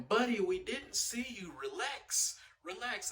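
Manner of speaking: high imitation of the other driver; imitated lady. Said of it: "the lady saying".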